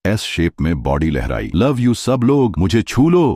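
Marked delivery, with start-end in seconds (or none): 1.5-3.3 high-pitched, gushing streamer voice; giggly delight. A narrator's reading. Streamer winking at her viewers, giggly and high-pitched. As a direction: coo it high to adoring fans. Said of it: "उसने खिलखिलाते हुए कहा".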